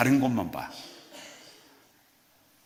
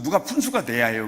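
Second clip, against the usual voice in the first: ordinary talk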